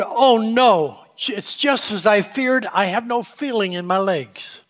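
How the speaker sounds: alarmed exclamation. Acted. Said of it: "He exclaimed out loud".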